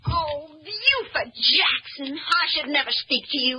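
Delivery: crying scold. Acted. Woman scolds Buford after punch.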